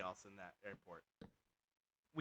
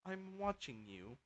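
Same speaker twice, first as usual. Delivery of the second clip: slow, higher and softer warning; mock suspicious officer; 7 semitones higher, 8 dB quieter, slower than usual. Airport security warning a traveller, slow mock suspicion. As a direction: draw it out as a quiet, high-pitched threat. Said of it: "and they were like".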